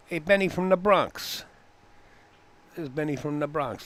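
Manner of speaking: high, loud shout-out to a friend; loud call-out. Real, not acted. Calls out to Benny.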